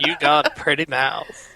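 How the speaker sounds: understated movie-style Southern drawl. Pretend. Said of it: "more realistic when Taylor says it, more movie-like".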